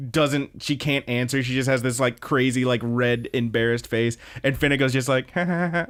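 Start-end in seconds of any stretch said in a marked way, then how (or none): 5.3-5.9 imitated high laugh; short higher ha-ha cackle; still laughing. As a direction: mimic someone laughing in the background. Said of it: "still laughing her ass off".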